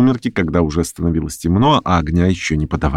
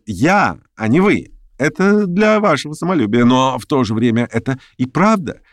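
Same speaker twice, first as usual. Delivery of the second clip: higher, quick eager busybody; fussy chatterer; 5 semitones higher than usual. Acted. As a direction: chatter on, pleased with himself. Pyotr Stepanovich voiced. (суетливый болтун, высоко)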